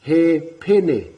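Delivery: He pene, said slowly and clearly; teacher's model word. Shown as a demonstration. Teacher modelling a word for children, clear and slow. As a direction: sound out "He pene" for learners. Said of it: "you're teaching a new word".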